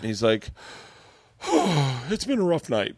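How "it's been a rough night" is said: heavy sigh, then high weepy voice; mock tearful friend. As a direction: imitate a friend worn out from crying. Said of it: "he starts sobbing, crying".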